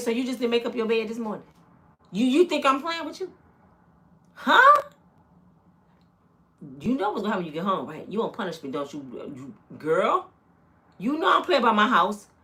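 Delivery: stern, scolding voice. Retelling how her mom showed up at the school office: imitating her scolding mom. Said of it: "My mom was the kind of mama".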